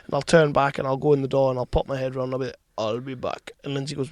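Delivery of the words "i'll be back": low, quiet movie catchphrase; Arnie. Acted. Popping back round the door, low Arnie impression. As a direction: drop it low like an action star. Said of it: "From, from Arnie movies".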